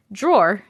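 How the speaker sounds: "Drawer" as one syllable, "draw-r"; rounded "aw" in "Drawer"; New York pronunciation. Shown as a demonstration. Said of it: "I can't say drawer".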